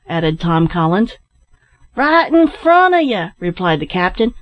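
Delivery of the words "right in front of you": high, far-carrying call. A narrator's reading. Captain answers his searchers from a tree, calling out. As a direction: holler the answer back.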